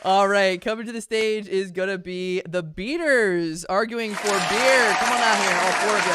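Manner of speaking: big hype intro; announcer. Acted. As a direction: call the team out loud. Hypes the teams onto stage.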